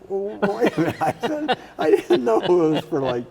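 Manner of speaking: flustered protest. Retold or imitated. New senator answers the Senate president's scolding, flustered protest. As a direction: act out a hurried, high-pitched backpedal.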